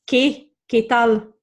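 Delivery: qué said "keh", no W glide; Spanish qué tal with K sound. Shown as a demonstration. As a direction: start qué on a clean K. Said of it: "make a K sound".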